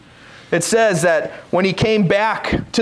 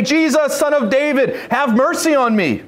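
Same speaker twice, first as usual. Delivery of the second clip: crying out; 5 semitones higher than usual. Retold or imitated. Blind beggar calls to passing Jesus, crying out. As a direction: call out in a restrained, raised voice. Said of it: "he began to cry out and say".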